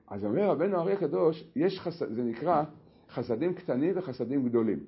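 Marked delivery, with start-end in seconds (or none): none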